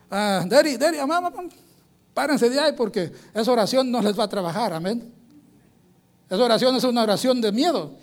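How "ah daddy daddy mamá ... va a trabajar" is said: a lightly voiced kid interrupting his praying parents; child calling out. Boy runs in to warn his parents, urgent child voice. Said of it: "entra el niño corriendo y dice".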